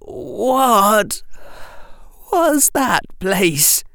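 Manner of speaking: high, slow, broken and hoarse; shattered boy, barely able to speak. Acted. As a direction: force the words through a tight throat. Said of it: "Harry said hoarsely".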